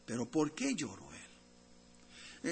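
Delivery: low, soft and slow, drawing listeners in; hushed question. Real, not acted. Preacher asking the congregation, low and slow. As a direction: pose the mystery softly.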